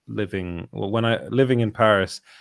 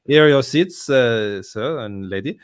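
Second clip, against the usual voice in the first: put-on louder, courteous usher in an English accent; 5 dB louder than usual. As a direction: announce the seats like a posh English usher. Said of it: "I'm doing it in an English accent".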